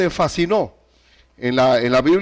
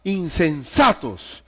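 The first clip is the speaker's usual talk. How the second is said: fatherly scolding; 3 semitones higher than usual. Acted. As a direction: chew them out like a father. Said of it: "hablando con esa confianza". (reprensión fuerte de padre a la iglesia)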